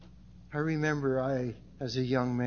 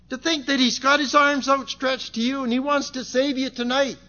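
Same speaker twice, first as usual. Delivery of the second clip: higher-pitched pleading sermon delivery; impassioned preaching; 11 semitones higher, 8 dB louder than usual. Real, not acted. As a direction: preach an earnest, raised appeal. Preaches an appeal.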